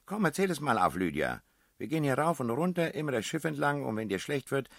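high, fast and eager ribbing; excited teasing. Acted. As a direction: pepper him with playful questions. Prinzessin neckt Peter aufgeregt. (aufgeregt neckend, hoch und schnell)

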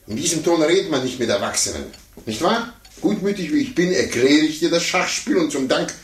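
put-on affronted adult lecturing a child; indignant scolding. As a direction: put the cheeky kid in his place, offended.

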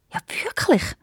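high, hushed excited question. A narrator's reading. Vizier stork hears the owl's news, very excited. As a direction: gasp it out in eager disbelief. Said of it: "fragt der Grossvezier Storch ganz aufgeregt".

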